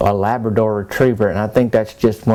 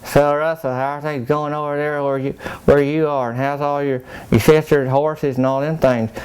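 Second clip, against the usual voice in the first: lips kept still, voice pitched up; ventriloquist talk; 5 semitones higher than usual. Retold or imitated. Chatting to a fellow wise man, ventriloquist style. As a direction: talk without moving the lips. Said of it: "kinda like a ventriloquist".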